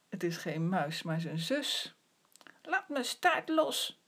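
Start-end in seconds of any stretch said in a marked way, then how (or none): 2.6-4.0 high, loud, slow protest; little sister shouts at her brother to let go; crying out. Acted. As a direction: yell to let go of her tail. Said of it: "roept Witje".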